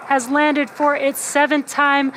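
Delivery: thrilled announcement; excited. Real, not acted. Booster lands on drone ship.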